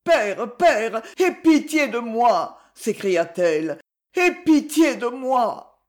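tearful plea. Acted. Daughter at father's feet, tearful plea. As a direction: beg for pity, voice near sobbing. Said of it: "éclata en larmes et sanglots".

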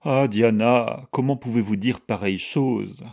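pained, emphatic reproach; wounded reproach. A narrator's reading. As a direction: protest as if shocked and hurt. Weak mother protests, reproaching Diana.

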